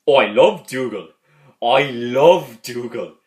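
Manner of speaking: lightly acted uncle, loud and emphatic; slow, punched declaration in a mock uncle voice; imitating uncle. Nephew quotes uncle on a favourite character, loud and emphatic. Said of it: "And he goes".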